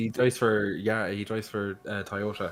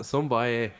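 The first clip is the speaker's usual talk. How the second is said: bad Northern Irish. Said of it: "that was a very bad Northern Irish accent".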